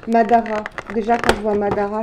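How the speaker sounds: loud, high burst of delight at the gift; thrilled gift reveal; excited unboxing. Real, not acted. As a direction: gush over the present. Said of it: "je suis contente".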